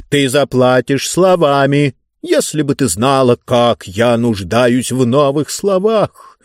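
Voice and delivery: slow, emphatic craving; lightly voiced ruler hungry for words; pompous ruler. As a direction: stretch the words out greedily.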